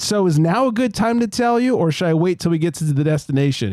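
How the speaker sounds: mock polite. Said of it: "And I said".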